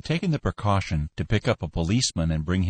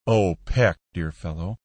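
sympathetic purr; 2 semitones lower than usual. A narrator's reading. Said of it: "Mister Skinner purred sympathetically".

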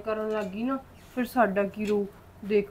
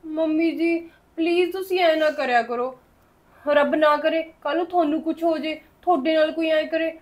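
pleading, louder and a touch higher; heated pleading; 3 semitones higher, 4 dB louder than usual. Acted. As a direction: push back at mother, begging her to stop. Pleading with harsh mother-in-law. (ਤਰਲੇ ਨਾਲ ਉੱਚੀ ਬੋਲ)

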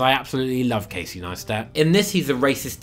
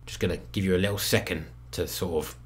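much softer, let it sink in; quiet aside; 8 semitones lower, 9 dB quieter than usual. Real, not acted. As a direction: drop to a low murmur. Dropped voice aside.

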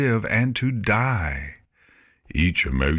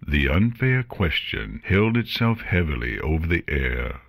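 usual speaking voice

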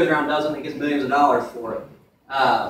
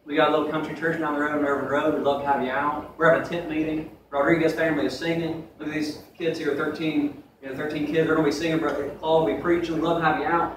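friendly invitation; 2 semitones lower, 4 dB quieter than usual. Retold or imitated. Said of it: "going up to them and saying this".

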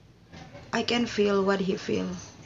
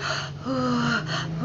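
a long breath out to steady himself; real sigh while fighting tears; deep sigh; 3 semitones higher, 6 dB quieter than usual. Real, not acted. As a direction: sigh to hold back the tears. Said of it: "I take my breath".

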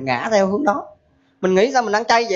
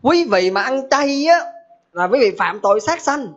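mock serious claim; 3 semitones higher, slower than usual. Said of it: "người đó mới nói một câu thế này là".

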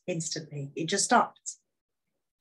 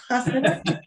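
laughing okay; 8 semitones higher, 6 dB louder than usual. Retold or imitated. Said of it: "I could see the devastation in her face".

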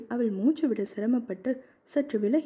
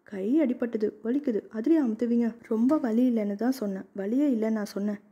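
playfully cross. Acted. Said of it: "என அவள் செல்லமாக கோபித்தாள்".

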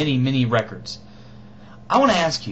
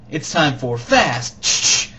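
gunshot announcing; 5 dB louder, slower than usual. Acted. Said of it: "It's supposed to sound like gunshots".

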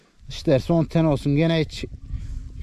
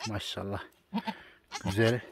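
soft, much quieter murmur over a newborn; hushed, fond praise; tender admiration; 5 semitones lower, 11 dB quieter than usual. Real, not acted. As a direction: croon softly at the little goat.

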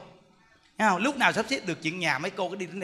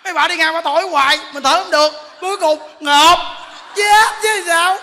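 mock gasping for air; 11 semitones higher, 9 dB louder than usual. Monk acting out a teacher smothered by women blowing on him, hammed-up gasping. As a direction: squeeze the words out as if the air is gone.

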